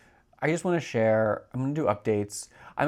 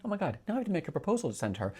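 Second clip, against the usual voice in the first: excited rush; 5 semitones higher, much faster than usual. Retold or imitated. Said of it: "she responded back to me".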